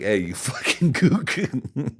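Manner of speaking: slow, high put-on voice, laughing through it; slow mock Asian voice. Teasing the boss to his face, in a slow, high, laughing mock voice. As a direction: drag it out in a silly high mock voice. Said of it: "I was like".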